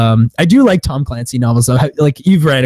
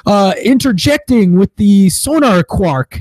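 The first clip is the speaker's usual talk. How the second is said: higher-pitched spoof of technical movie dialogue; mock submarine jargon; 6 semitones higher than usual. Movie crew talking baffling submarine shit, mock jargon voice. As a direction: rattle off jargon in a raised mock voice. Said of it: "So they'll be like".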